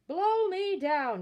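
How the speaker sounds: high, loud and slow, dumbfounded; stunned burglar blurting it out; astonished exclamation. Acted. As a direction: gasp it out in amazement. Bill opens box, finds baby.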